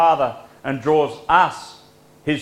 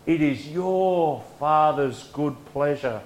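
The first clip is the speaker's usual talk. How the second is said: said more sweetly; 2 semitones higher than usual. Shown as a demonstration. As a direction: soften it and dwell on "your". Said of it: "but says more sweetly".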